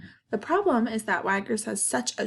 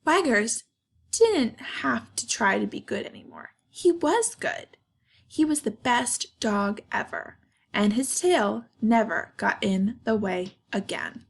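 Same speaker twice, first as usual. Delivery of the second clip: expressive storybook narration with pauses; reading to children. A narrator's reading. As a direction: tell it to kids, lifting and stretching key words. Reads picture book to children.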